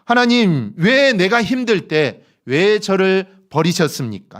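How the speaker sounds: lightly acted reproach, drawn out on the question; reproachful protest. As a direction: take God to task, with restraint. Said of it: "그리고 하나님께 따집니다".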